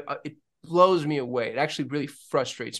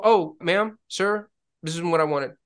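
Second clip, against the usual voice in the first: polite complaint; 5 semitones higher, 5 dB louder than usual. Retold or imitated. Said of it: "you know, respectful".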